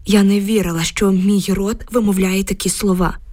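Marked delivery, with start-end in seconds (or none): none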